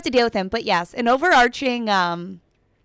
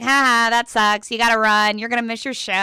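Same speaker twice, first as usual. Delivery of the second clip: imitated taunting. Traffic cop making fun of a late radio host, imitated taunt. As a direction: mimic someone making fun of you. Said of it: "he literally is laughing at me, making fun of me".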